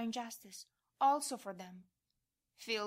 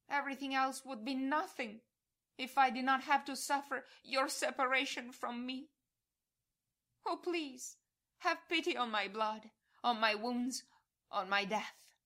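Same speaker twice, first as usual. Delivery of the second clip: loud plea; 3 semitones higher, 4 dB louder than usual. Acted. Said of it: "And you cry out loudly to all hearts".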